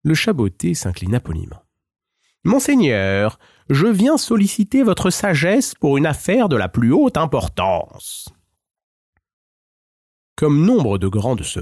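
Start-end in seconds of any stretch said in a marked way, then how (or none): 2.4-8.3 higher, courtly cat voice bowing to the ogre; a sly, flattering little cat; Puss in Boots. Acted. Cat flatters the ogre on his throne, higher courtly voice.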